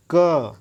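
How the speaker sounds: क said lightly, without extra force of breath; unstressed consonant. Shown as a demonstration. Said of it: "हम बल use नहीं कर रहे हैं". (क बिना बल के, हल्के से)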